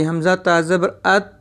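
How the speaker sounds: "अत" closed on a still t, no echo; no bounce. Shown as a demonstration. Teacher shows a letter without qalqala, "अत" ending unbounced. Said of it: "अब इसको हलाका नहीं पढ़ेंगे".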